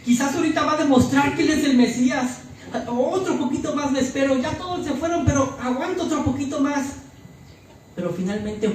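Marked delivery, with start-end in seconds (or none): 0.0-6.9 a hint of a hopeful onlooker, pitched higher; Juan esperanzado. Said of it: "como diciendo". (voz de quien aguanta esperanzado)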